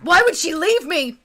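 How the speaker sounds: blubbering. Acted. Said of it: "he's blubbering".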